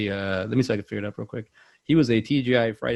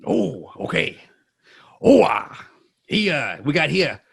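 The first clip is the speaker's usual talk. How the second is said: raspy whispered start bursting into loud hoo-ah; rough warm-up take on the movie star, jumping higher; Al Pacino impression; 4 semitones higher, 5 dB louder, slower than usual. Comedian warming up for a harder voice, Al Pacino impression. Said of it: "maybe do a little Pacino to warm up".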